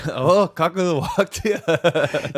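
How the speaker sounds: loud, high, drawn-out bad British imitation; mock British accent. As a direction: mimic a botched British accent, laughing. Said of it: "You sound like you're trying to do a British accent".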